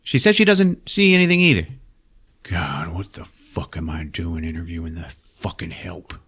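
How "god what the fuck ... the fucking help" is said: sneering boss. Retold or imitated. Michael Shannon's character sneering at help.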